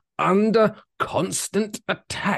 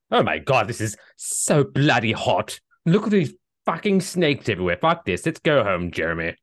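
put-on British accent. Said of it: "the British turn up".

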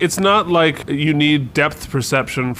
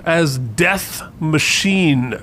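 dark lord; slower than usual. Acted. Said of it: "I'm like Death Machine nine".

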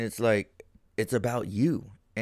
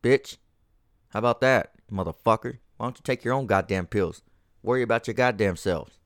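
retort. Retold or imitated. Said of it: "Before I'm gonna retort with".

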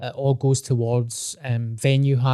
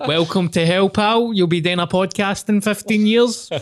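laughing tease; 6 semitones higher than usual. Real, not acted. Joking through laughter.

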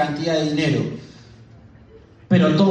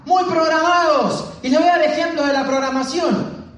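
shouting speaker; 11 semitones higher than usual. Retold or imitated. Colombian speaker whipping up the crowd, shouting high. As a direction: belt it out like a fired-up seminar speaker. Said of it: "él gritando".

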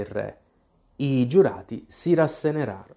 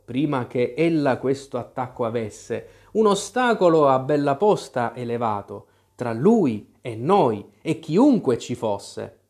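measured, rhythmic poem reading; reciting verse; 2 semitones higher than usual. Acted. The rabbit reading the letter's verses to the court, measured recitation. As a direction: read the nonsense verse with a steady lilt.

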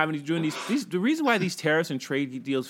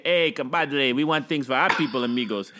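put-on Mexican accent; 4 semitones lower than usual. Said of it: "And the Mexicans say".

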